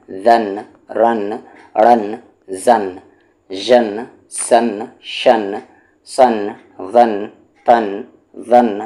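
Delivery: measured classroom drill voice; syllable drill. Shown as a demonstration. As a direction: chant the syllables one by one like a reading teacher. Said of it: "teacher drills syllables ending in noon".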